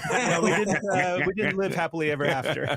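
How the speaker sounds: laughing. Real, not acted. Friend laughing about his failed date. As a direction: chuckle through the line. Laughing at own breakup story.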